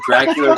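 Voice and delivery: "Dracula" ending in an r sound. Shown as a demonstration. Explaining mom's accent to co-hosts, "Dracula" with an added final R. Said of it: "got the R at the end".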